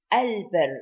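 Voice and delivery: al-bir with the L clearly sounded; lam pronounced. Shown as a demonstration. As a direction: say al-bir, keep the lam distinct before the b. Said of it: "We pronounce the lam".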